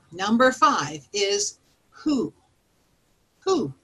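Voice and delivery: slow, drawn-out WHO. Shown as a demonstration. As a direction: stretch "who" long and slow. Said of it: "I feel like an owl when I do that".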